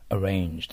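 "arrange" with a tongue-down English R. Shown as a demonstration. Teacher repeats "arrange" for the class, English R with tongue tip down. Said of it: "Rに気をつけてください".

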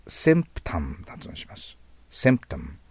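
symptom said with s as in see, not shi; symptom: crisp s, lips fully closed on the m; pronunciation demo of symptom; model pronunciation. Shown as a demonstration.

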